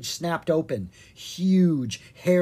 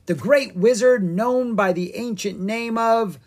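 grand wizard; 9 semitones higher, 6 dB louder than usual. Acted. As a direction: build up the name grandly. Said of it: "the wizard said".

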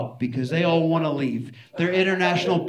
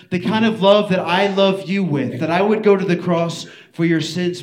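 raised, louder preacher's plea, opening high on the name; earnest appeal; 5 semitones higher, 5 dB louder than usual. Acted. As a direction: press the question home as Jesus to Peter. Acts Jesus questioning Peter.

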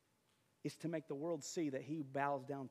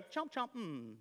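mock chomping; 6 semitones higher, slower than usual. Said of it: "before the lions go".

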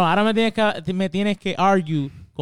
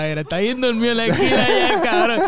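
higher, mocking call-out to a sleepy friend; teasing; 5 semitones higher, faster than usual. Real, not acted. Friend teasing dozing Uli on the podcast, mocking call-out. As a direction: poke fun at the dozing friend.

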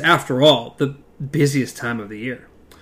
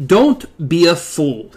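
sharp; 3 semitones higher, 4 dB louder, slower than usual. Acted. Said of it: "he said sharply".

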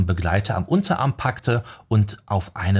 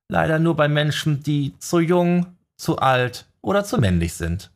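theatralisch seufzend; 7 semitones higher than usual. A narrator's reading. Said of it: "seufzte Leroy theatralisch".

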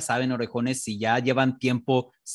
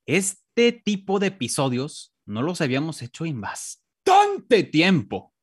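lightly voiced old man, slowed; a hint of a creaky grandpa; 3 semitones higher, slower than usual. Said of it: "traté de hacer como una voz de viejito".

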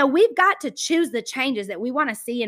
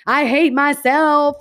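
emotional outburst; 5 semitones higher, 5 dB louder, slower than usual. Retold or imitated. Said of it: "a basket case and very emotional".

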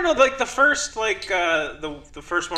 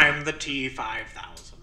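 Morgan Freeman voice; 3 semitones lower, 3 dB quieter, slower than usual. Retold or imitated. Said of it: "Maybe you should get Morgan Freeman".

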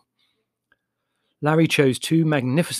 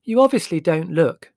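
higher, louder and very distinct; clear, penetrating voice; 6 semitones higher, 8 dB louder than usual. A narrator's reading. Margot chides Leslie at lunch in a penetrating voice. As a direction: cut across the table clearly. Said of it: "in a clear and penetrating voice".

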